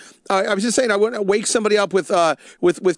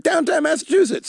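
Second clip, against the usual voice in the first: "Downtown Massachusetts" said higher, stressing "Downtown" with a falling, certain tune; mock sure-of-himself local; deadpan confident delivery; 9 semitones higher than usual. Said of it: "he just totally delivered it".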